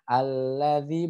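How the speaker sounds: alladzi with dh between the teeth; clear dzal. Shown as a demonstration. Teacher contrasting right and wrong dzal. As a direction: say alladzi slowly. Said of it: "tapi alladzi seperti itu".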